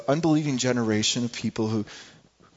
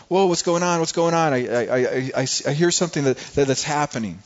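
startled Jesus. Acted. Preacher voices Jesus startled by argument.

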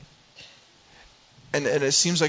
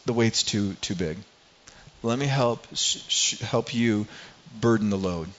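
lightly voiced tender God; 3 semitones lower than usual. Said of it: "God moves very tenderly towards Moses".

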